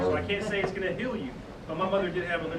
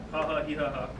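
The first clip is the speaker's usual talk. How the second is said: diaphragm breath pulses; 3 semitones lower than usual. Shown as a demonstration. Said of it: "we're gonna do that".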